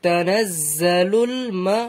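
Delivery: slow recitation halting on "মা"; learner's slow reading that breaks off mid-word; getting stuck reading. Shown as a demonstration. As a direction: draw out "তানাজ্জালুল", then stop short at "মা". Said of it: "পড়তে পড়তে কোনো জায়গায় আটকে গেলে".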